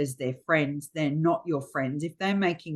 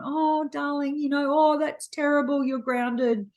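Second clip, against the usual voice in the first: mock-dramatic parent, pitched high; high, hammed-up scolding; 6 semitones higher than usual. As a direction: act out an overwrought parent grounding a kid. Acts out parent scolding child.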